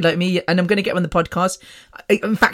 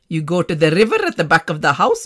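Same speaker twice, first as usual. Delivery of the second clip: mock healer in South Asian accent; put-on South Asian accent. Healer sending daughter to the river, South Asian accent. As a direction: imitate ritual instructions with a South Asian accent. Voices healer's ritual instructions.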